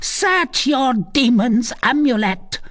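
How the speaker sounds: high, intense scorn; angry grumbling. A narrator's reading. Gudule orders gypsy to search her amulet, angry. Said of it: "grumbled Gudule".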